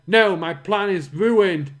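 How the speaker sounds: loud, slow villain lament; defeated villain. Acted. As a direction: wail that your plan is ruined.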